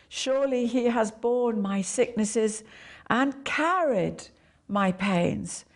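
carried stressed and slowed. Shown as a demonstration. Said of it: "emphasize one word at a time".

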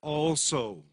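mild imitation of Paul raising his voice. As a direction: stretch it out slowly and insistently, a little lifted. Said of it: "Paul is lifting his voice now and is screaming".

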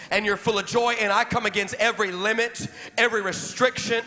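preacher praying over the church, building to shouts; fervent prayer. Real, not acted. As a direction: lead the prayer, rising into declarations. Leads a prayer.

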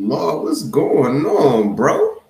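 loud, high, slow call; excited shout-out. Real, not acted. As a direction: hail a friend joyfully. Calling out to brother.

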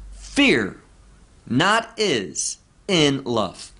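"Fear not is in love" read slowly, word by word; slow literal word order. Shown as a demonstration. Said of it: "Translated literally, according to word order".

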